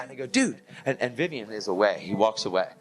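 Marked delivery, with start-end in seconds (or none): 0.3-0.6 much higher, drawn-out exclamation; amazed dude. Retold or imitated. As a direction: call him out in amazement. Astonished call to the reporter.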